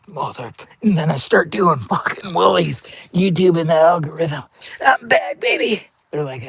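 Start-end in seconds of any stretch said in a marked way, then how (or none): 4.9-5.9 cocky comeback. Retold or imitated. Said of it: "voicing his own comeback".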